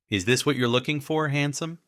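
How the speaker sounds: put-on teasing English accent rising on "handsome"; flirty English accent. Ivy teases Nate holding out the card, English accent. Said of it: "in the same new accent".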